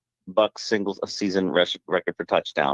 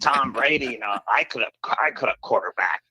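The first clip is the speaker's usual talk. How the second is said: lightly voiced Leo boasting, a touch higher; bragging Leo, barely put on; gentle mock of a cocky ex-player; Leo impression; 4 semitones higher than usual. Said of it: "That is a great impression of Leo".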